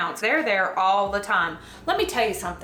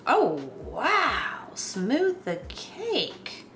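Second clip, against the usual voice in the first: pleasantly surprised; 4 semitones higher, 3 dB quieter, much slower than usual. Real, not acted. Impressed by tool.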